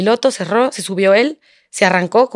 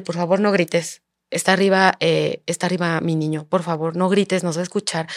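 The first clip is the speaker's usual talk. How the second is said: retold hushed pleading; 4 semitones lower, 5 dB quieter than usual. Pleading so the son won't hear.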